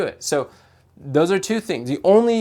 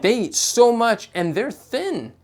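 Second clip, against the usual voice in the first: whiny client; 7 semitones higher than usual. Retold or imitated. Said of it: "I'm like".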